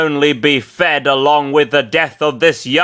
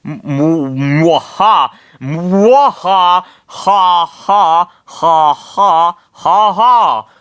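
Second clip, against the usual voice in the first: higher, louder villain cackle; maniacal laugh; 6 semitones higher, 5 dB louder, slower than usual. Acted. Bernard gloats over his hostage, maniacal laughter. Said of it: "laughing maniacally".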